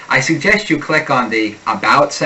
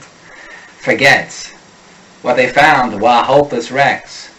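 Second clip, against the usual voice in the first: "forgets" and "were" with the R dropped, Boston style; slower than usual. Shown as a demonstration. Coach modelling Boston R drops, "were" said "wah". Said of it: "a wicked awesome Boston speaker has no use for the unstressed R".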